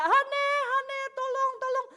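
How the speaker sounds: high-pitched acted cry for help; retold yelling. Wife calling her husband to swap the gas, yelling. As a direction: call out urgently, far above normal pitch. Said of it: "Saya teriak-teriak".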